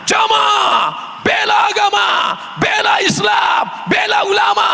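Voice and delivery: booming high shout at the congregation; thundering sermon. Shown as a demonstration. Sumatran preacher rallies the congregation, booming and thunderous. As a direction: roar it out like a fiery preacher. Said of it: "Keras, menggelegar".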